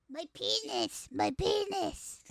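slow changed voice; voice changer. Acted. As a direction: say it slowly through the changer. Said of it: "Let me adjust my voice changer".

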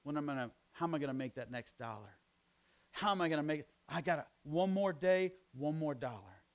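anxious worrier. Retold or imitated.

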